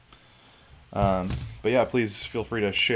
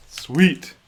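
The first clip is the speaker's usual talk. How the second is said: excited; 7 semitones higher, 7 dB louder than usual. Real, not acted. Pleased once the build is right.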